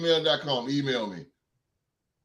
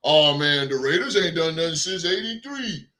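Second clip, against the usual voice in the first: mock petty fan; 2 semitones lower than usual. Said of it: "I know how petty y'all are".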